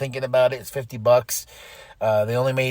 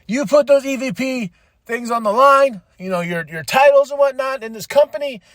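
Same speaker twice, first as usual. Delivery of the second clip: higher, passionate mock promo voice; imitating Will Ospreay; 5 semitones higher than usual. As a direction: hype it like a wrestler on the mic. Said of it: "He's like".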